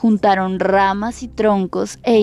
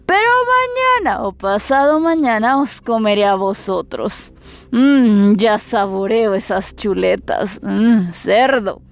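wolf voice; 2 semitones higher than usual. Acted. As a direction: savour each word like a hungry wolf. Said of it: "les gritó".

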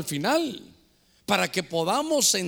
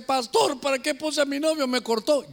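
imitated complaint; 5 semitones higher than usual. Voices a member complaining to pastor.

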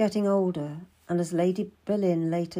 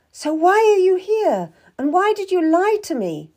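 high, loud, upset questioning; upset cry; 11 semitones higher, 7 dB louder than usual. A narrator's reading. Girl confronts Mistress Stab about being lied to, crying out upset. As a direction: voice rising in pitch and volume with hurt. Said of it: "I cried, my voice getting louder as I got more upset".

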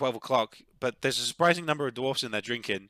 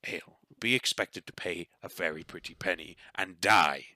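lightly voiced dwarf giving advice; a hint of gruff-hearted dwarf confiding; dwarf barkeep, frank. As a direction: warn a newcomer as a tavern-keeper.

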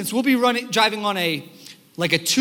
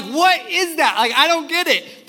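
mock confused; 8 semitones higher, 3 dB louder than usual. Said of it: "And I'm like".

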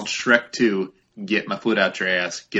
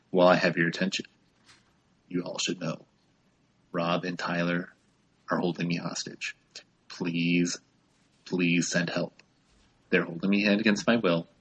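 panicked breathless whispers; 6 dB quieter than usual. Pretend. Mock hostage plea to listeners.

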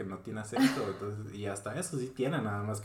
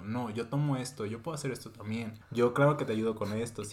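overeager new-hire offering to take everything; eager to please. Retold or imitated. New employee volunteering for every task, eager and bright. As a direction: sound like you'll say yes to anything. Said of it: "estar como que diciendo".

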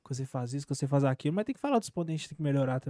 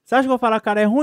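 laughing; 5 semitones higher, 9 dB louder, much faster than usual. Real, not acted. Repeats it, laughing harder.

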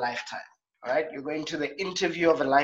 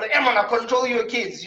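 angry; 6 semitones higher than usual. Retold or imitated. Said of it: "just give him a nice lefty".

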